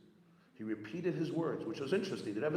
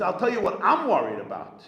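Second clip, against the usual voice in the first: high, loud and urgent, pressing the point home; emphatic reassurance; 8 semitones higher, 13 dB louder than usual. Retold or imitated. Rabbi Yoel urging the upset chassid, high loud reassurance. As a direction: reassure him forcefully, almost pleading.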